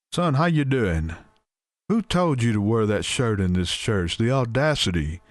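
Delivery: a hint of a scandalised preacher scolding a young man; Brother Wayne voice. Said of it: "use my brother Wayne voice".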